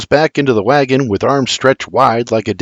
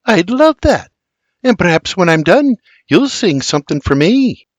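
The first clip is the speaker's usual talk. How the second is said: flattered, breathed; 6 semitones higher than usual. A narrator's reading. Flattered Mary accepts William's invitation to sing, breathy delight. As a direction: breathe it out, touched. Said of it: "Flattered, she breathes".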